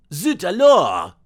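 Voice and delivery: slow, loud crowd scream in French; panicked Parisian cry. A narrator's reading. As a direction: yell it out as a fleeing Parisian mob. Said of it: "screamed the thousands of Parisians".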